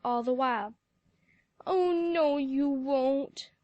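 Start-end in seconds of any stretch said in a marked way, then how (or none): 1.7-3.5 whimpering. A narrator's reading. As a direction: whimper hopelessly through tears. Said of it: "whimpered Sally".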